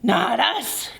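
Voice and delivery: a hint of bear growl. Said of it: "growled the bear".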